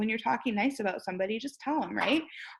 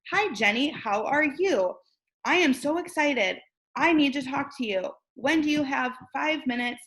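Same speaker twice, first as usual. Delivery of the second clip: bright and eager, pitched up a little; excited voice message; 4 semitones higher than usual. Shown as a demonstration. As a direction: sound thrilled to reach Jenny. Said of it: "feel the excitement and the energy in your voice".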